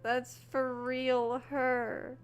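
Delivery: high, stressed "not" in disbelief; emotional insistence. Real, not acted. Streamer to viewers about the character, high and urgent. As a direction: insist it's really her.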